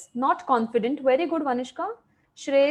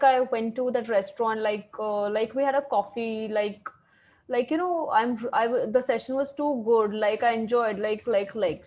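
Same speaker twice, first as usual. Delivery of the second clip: rambling filler talk; 3 semitones lower than usual. Shown as a demonstration. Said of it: "a lot of people have the habit of saying things like".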